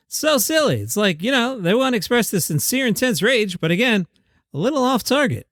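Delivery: lightly voiced Jerry Seinfeld; a hoarse, half-hearted Jerry; Jerry Seinfeld impression. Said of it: "my good half-ass Jerry Seinfeld".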